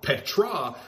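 Petra, PEH-tra, falling tune; Greek word Petra. Shown as a demonstration. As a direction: give Petra a clear PEH stress to contrast with Petros. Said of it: "the word Petra".

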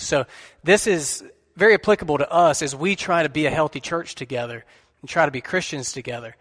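tired, weakened voice; weak voice. Real, not acted. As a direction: speak with a weak, worn voice. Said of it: "my voice is weak today".

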